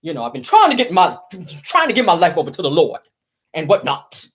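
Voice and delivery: put-on solemn, sanctimonious announcement; mock face-saving statement. Gossip host mimicking husband's divorce announcement, mock pious. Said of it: "try to save face and say".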